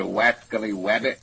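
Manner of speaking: lightly imitated cartoon speech with r's as w's; Elmer Fudd. Co-reader asking about the accent, lightly mimicking Elmer Fudd. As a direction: say the r's as w's, barely in character. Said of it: "That's Elmer Fudd".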